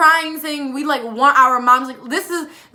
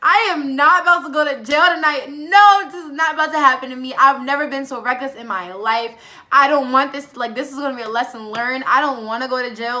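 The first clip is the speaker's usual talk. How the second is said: insistent, emphatic protest, acted out; retold freak-out. Storyteller replays her refusal to go to jail, freaking out. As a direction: act out a mild panicked refusal. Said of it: "I'm starting to freak out".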